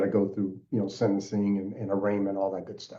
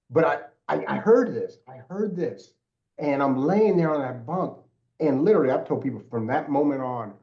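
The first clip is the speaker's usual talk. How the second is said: on the edge of tears, pitch climbing higher and higher; close to tears; 5 semitones higher than usual. Real, not acted. Telling the podcast hosts his turning point, near tears. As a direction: voice rising as real tears come near. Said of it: "I'm getting ready to cry".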